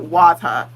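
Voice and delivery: "water" ending in "ah", R dropped; home-region pronunciation. Shown as a demonstration. Vlogger shows how home says it, R dropped. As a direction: say "water" as "wata". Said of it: "'cause where I'm from, it's like, we pronounce it".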